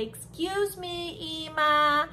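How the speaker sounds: a light mock-polite baby voice. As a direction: play a baby asking far too politely. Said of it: "Are they going to say".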